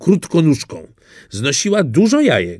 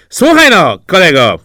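put-on high, loud cocky young ganders; brash young ganders calling out; cheeky gander voice, pitched up high; ganders talking; 6 semitones higher, 8 dB louder than usual. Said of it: "powiedziały".

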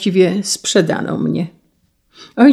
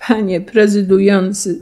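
ordinary delivery

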